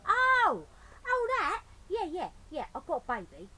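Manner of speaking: high, loud startled burglar; Burglar Bill voice. Acted. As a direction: caught out, blurting it.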